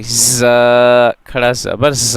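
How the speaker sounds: ज़ said with a hissing, whistle-like buzz; whistling z. Shown as a demonstration. Teacher showing the whistling sound of ज़. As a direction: let ज़ whistle through the teeth. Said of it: "whistle like sound होंगी".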